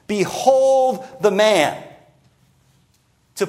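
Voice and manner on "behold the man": slow, drawn-out mocking announcement; ridiculing. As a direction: present him as a laughable figure. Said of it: "he's ridiculing the Jewish leadership".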